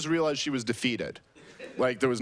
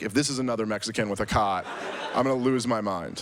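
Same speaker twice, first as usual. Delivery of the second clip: laughing while threatening to lose it; half-laughing, fed up; laughing exasperation; faster than usual. Retold or imitated. Exasperated joke, laughing through it.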